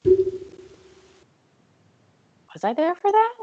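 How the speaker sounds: slow, high, drawn-out mock; mocking echo. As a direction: drag it out, teasing. Possessor mocking the question.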